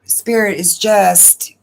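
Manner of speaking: real emotion breaking through, spoken in a hushed whisper; choked up. Real, not acted. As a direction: pause and whisper through rising tears. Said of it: "I almost started to cry".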